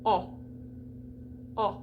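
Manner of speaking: a dark "Ah" with rounded lips; open O. Shown as a demonstration. Teacher showing an open O, rounded dark vowel. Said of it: "then you're gonna put lips".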